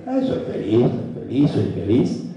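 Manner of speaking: "soy feliz" said flatly, half-hearted, without feeling; flat, going through the motions. Shown as a demonstration. Speaker shows the wrong way to say it: half-hearted and flat. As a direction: mumble "soy feliz" like a chore you don't believe. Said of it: "una cosa es decir".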